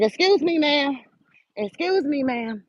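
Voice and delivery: lightly mimicked snippy high "Excuse me, ma'am"; a mild mock of a rude customer; mocking rude girl. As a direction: imitate a curt, dismissive young woman. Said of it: "this how she was talking to me".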